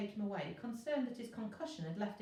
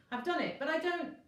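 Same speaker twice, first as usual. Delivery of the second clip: calling out; 8 semitones higher, 5 dB louder than usual. Acted. Virgo calling out, unsure.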